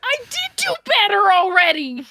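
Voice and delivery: genuinely angry, pitch swooping high. Breaking character during a role-play to answer back, mad. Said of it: "That was her being mad".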